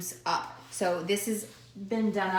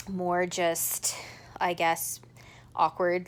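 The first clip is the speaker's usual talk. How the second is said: whispering; much slower than usual. Real, not acted. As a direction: drop to a hushed whisper. Private aside about awkward stitches.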